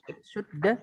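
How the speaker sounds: "sudah" with the d not drawn out; short dal in sudah. Shown as a demonstration. Teacher correcting the student's sudah, short dal. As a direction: say "sudah" without lengthening the dal. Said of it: "Nggak dipanjangin dalnya".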